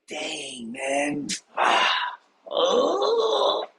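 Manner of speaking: high, mock dismayed groan. Tom seeing his desk, high mock dismay. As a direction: react to a messy desk. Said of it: "he's like".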